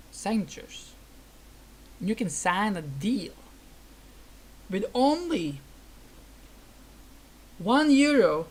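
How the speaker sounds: over-the-top sales patter, swelling on the big numbers; hammed-up salesman pitch. To the interviewer, selling the magical pen, hammed-up salesman pitch. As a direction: sell it like a cheesy TV huckster.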